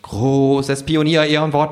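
kangaroo voice. A narrator's reading. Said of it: "sagt das Känguru".

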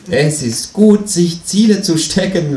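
high, pushy kangaroo voice; a cheeky high voice for the Kangaroo. A narrator's reading. Känguru nags the narrator to clean the bath, high and pushy.

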